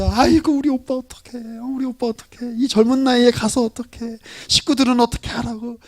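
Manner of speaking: keen over the dead brother, hammed up a little; mock wailing lament. Mary mourning her brother at the funeral, mock wail.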